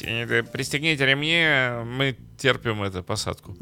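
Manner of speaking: flight attendant voice. Retold or imitated. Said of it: "голосом стюардессы объявить".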